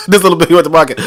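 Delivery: amused, laughing rhyme delivery; mock little-piggy cadence; nursery-rhyme recital. Shown as a demonstration. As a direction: chuckle through a counting rhyme. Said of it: "I'm sounding like that".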